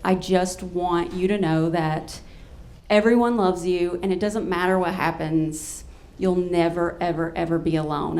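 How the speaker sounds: imitating a friend's sincere comfort; heartfelt reassurance. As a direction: promise it tenderly, as retold. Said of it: "so beautiful and so pure".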